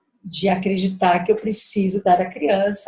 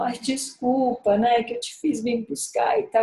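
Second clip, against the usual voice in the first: whiny daughter; 5 dB quieter than usual. Retold or imitated. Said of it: "bem manhosa no carro".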